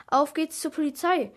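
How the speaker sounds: rally the friends to get moving; calling out. A narrator's reading. Boy urging friends to the police, calling out. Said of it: "rief ich".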